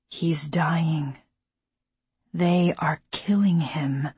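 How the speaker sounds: hushed whisper. A narrator's reading. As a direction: whisper it in dread. Alone at dying father's bed.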